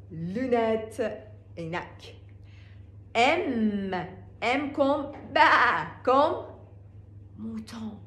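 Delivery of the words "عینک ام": ordinary talk, nothing marked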